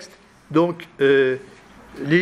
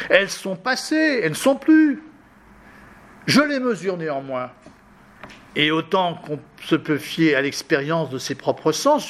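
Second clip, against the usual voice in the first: reading a text aloud; 2 semitones higher than usual. Acted. Teacher reads Augustine to the class in a raised reading voice. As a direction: read it out as the old author's own questioning.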